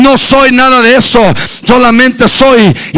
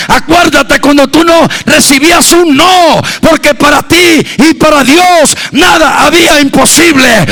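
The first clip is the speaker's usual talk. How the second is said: rising exhortation. Acted. Preacher stirs the church to first love. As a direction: build the memories to a climax.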